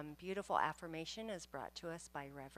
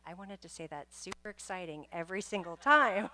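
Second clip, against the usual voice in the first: laughing; 2 semitones higher, 9 dB louder than usual. Real, not acted.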